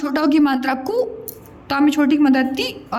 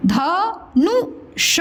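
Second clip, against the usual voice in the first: धनुष drawn out; very slow; 4 semitones higher, much slower than usual. Shown as a demonstration. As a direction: stretch धनुष for the class. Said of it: "teacher models word slowly".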